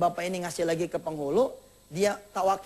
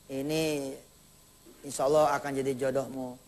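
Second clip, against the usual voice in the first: mother's voice; 7 semitones lower, 3 dB quieter than usual. Acted. Mother tells daughter of match.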